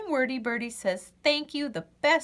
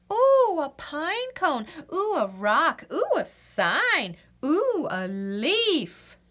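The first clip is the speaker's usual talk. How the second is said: delighted oohs; 5 semitones higher, slower than usual. Acted. Birdie distracted by things.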